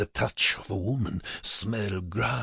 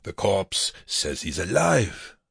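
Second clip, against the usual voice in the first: slow, slightly raised announcement; projected announcement; 3 semitones higher, slower than usual. A narrator's reading. Prisoner reporting so the SS guard hears, projected slowly. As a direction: spell it out slowly for an eavesdropper. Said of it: "again loud enough for the S S guard".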